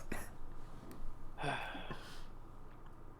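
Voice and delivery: soft, breath-heavy acted chuckle; Gasper's chuckle. Game master plays Gasper laughing at Calder, soft chuckle. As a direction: chuckle quietly in amusement. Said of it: "you see Gasper kind of laughing at this".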